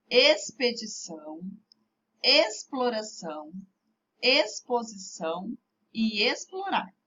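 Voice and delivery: "Expedição, exploração, exposição e explorar" with X as a plain S. Shown as a demonstration. Teacher models words for pupils to read along, "Expedição, exploração, exposição e explorar" with X as S. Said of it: "Com som de S simples antes da consoante".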